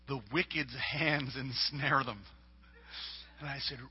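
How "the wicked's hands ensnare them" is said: put-on slow, earnest child reciting the verse for his dad; son repeating verse. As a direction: say it again slowly, like a boy repeating his verse. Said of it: "He said".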